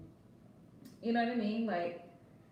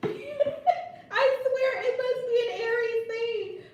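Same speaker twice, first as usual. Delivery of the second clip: higher, slow, laughing through the words; 11 semitones higher, 3 dB louder, slower than usual. Real, not acted. Host laughing about sister's Starbucks habit. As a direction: laugh as you say it.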